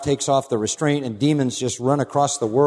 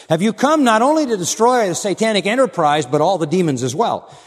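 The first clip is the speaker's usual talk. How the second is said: mock demon challenge; 6 semitones higher, 5 dB louder than usual. Preacher voices a demon questioning.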